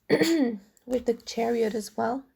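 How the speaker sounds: hoarse, tired voice; losing voice. Real, not acted. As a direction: voice giving out. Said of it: "I'm losing my voice slowly but surely".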